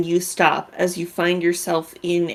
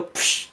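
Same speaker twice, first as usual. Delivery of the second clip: breathy "psh" sound effect; vocal sound of light vanishing; imitated whoosh; 8 dB quieter than usual. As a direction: make a short hissing whoosh. Imitating magical light going out.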